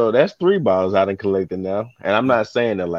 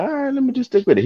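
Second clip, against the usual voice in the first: much higher, fast mock resolve; faster than usual. Carrier to himself as a customer waves, high and fast. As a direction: squeak out a quick decision. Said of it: "I'm like".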